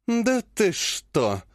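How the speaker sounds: slow mock-delighted surprise; gleeful. Clan head gleefully toying with the guilty healer. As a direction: savour it, pretending to be pleased. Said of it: "радостно уточнила она".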